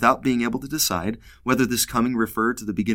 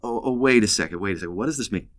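puzzled Joseph; faster than usual. Retold or imitated. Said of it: "and he says".

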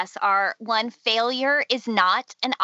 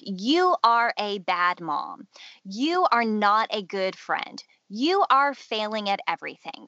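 condemning. Acted. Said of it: "condemnation has to do with you statements like".

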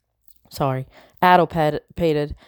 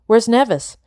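higher, urgent demand; raised voice; 6 semitones higher, 4 dB louder than usual. A narrator's reading. Isabel demanding where her sister is, voice raised. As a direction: call the question out. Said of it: "My voice echoed up the walls".

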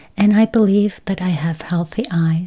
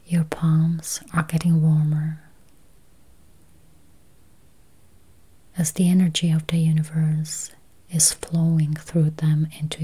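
slow, spacious meditation voice with long pauses; guided meditation; 5 dB quieter, slower than usual. Acted. Meditation guide easing listeners toward healthy eyes, slow guided-meditation voice. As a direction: guide listeners gently into calm, unhurried.

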